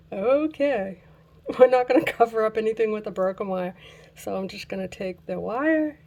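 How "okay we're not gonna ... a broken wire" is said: loud, fast, exasperated; frustrated outburst. Real, not acted. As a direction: blurt it out fed up. Frustrated after breaking wire.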